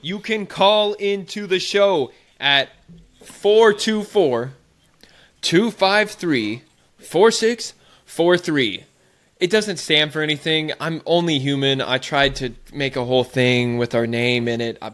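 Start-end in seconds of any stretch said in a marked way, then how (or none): 0.0-8.9 announcer voice. Acted. Repeats number slowly.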